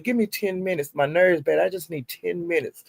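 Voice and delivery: a lightly voiced tired girlfriend; quoted plea. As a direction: hush it down like frayed nerves. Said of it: "she was saying".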